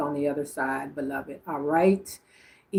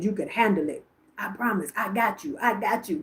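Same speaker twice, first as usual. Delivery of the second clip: lightly voiced insistent grandmother, slightly higher; grandmother's way of talking; 4 semitones higher than usual. Medium quoting grandmother to granddaughter, lightly imitated reassurance. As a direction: imitate her emphatic reassurance. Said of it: "This is how she talking".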